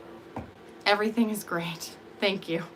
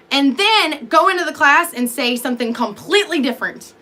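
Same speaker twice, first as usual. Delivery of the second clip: excited rambling; 3 semitones higher, 4 dB louder than usual. Shown as a demonstration. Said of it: "here's an example of me. This is my actual personality".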